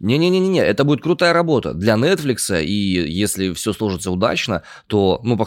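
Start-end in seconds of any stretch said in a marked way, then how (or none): 0.0-2.6 emphatic. Real, not acted. Emphatic objection.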